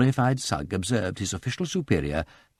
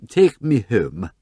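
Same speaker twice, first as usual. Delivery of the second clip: tearful plea; 5 dB louder, much slower than usual. Acted. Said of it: "cried ... bursting into tears".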